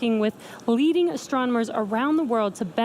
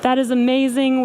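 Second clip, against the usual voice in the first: thrilled; 2 semitones higher, 3 dB louder than usual. Real, not acted. Host reacts to successful landing.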